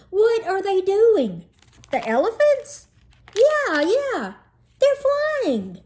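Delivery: high, loud, gasping through laughter; laughing out words. Acted. Joey barely getting words out while cracking up. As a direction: force the words out between laughs. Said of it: "got it out".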